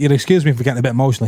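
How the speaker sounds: plain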